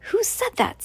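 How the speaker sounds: high-pitched surprised driver; startled question. A narrator's reading. Startled driver to unknown back-seat passenger, surprised. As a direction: jump at the unexpected voice, pitch shooting up.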